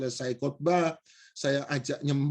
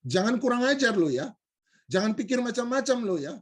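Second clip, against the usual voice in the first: higher-pitched mock threat; retold anger; 6 semitones higher, faster than usual. Stranger turned from laughing to angry, mock threatening. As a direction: imitate someone suddenly turned angry and warning. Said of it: "berubah jadi marah dan berkata".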